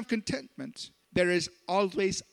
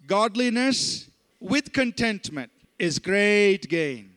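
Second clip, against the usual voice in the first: slow, louder call-and-response recital; leading a group recitation; 5 dB louder, slower than usual. Shown as a demonstration. Preacher leading the congregation in reciting, slow and loud. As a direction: lead the church through the verse together. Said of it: "Let's all say it together".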